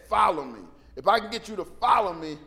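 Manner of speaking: a loud, firm call to follow; loud command. Acted. Jesus calling Matthew at his booth, loud and firm.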